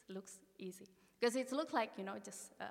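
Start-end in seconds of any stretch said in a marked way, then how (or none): 0.1-0.9 unvoiced little whisper of false confidence. Telling herself the trail looks easy, whispered. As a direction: breathe it like a secret. Naive hiker sizing up trail.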